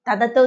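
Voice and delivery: put-on baby-talk lisp on "दादा तो"; lisping toddler talk. Child lisping at grandfather, imitated toddler lisp on "दादा तो". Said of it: "तोतली जुबान में बोले".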